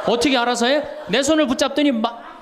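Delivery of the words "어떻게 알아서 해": laughing protest. Retold or imitated. Priest retells protesting while laughing.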